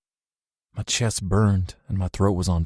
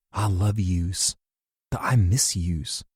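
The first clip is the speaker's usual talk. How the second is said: whispered memory; slower than usual. Retold or imitated.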